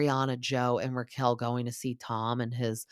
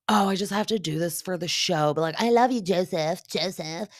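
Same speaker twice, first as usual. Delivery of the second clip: higher, put-on lovey voice pleading to her; mock sweet pleading; 4 semitones higher than usual. The speaker sweet-talking the girl, a put-on lovey higher voice. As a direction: coo it like a sly charmer.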